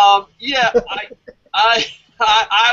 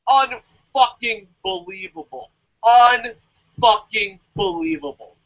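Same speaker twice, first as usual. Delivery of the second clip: slow disbelief; 3 semitones higher, slower than usual. Real, not acted. Disbelieving rant.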